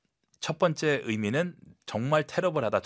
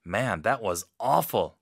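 blunt verdict; much slower than usual. Shown as a demonstration. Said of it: "정말 못했다라고 했을 때".

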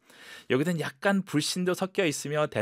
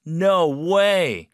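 loud, high delighted no way; surprised; 6 semitones higher, 8 dB louder than usual. Shown as a demonstration. Teacher demonstrating a happy surprised no way. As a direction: sound thrilled and amazed. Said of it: "이모션이 제대로 들어가야 됩니다".

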